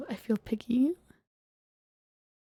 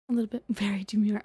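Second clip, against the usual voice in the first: giggly whispered aside; whispering; 4 dB louder, faster than usual. Acted. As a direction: whisper it with a little laugh.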